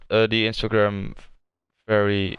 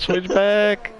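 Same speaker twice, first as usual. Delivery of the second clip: much higher, excited repeat; excited call; 11 semitones higher than usual. Real, not acted. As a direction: call it out again, up high.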